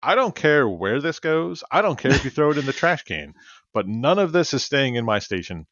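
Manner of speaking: firm scolding. Retold or imitated. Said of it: "I said".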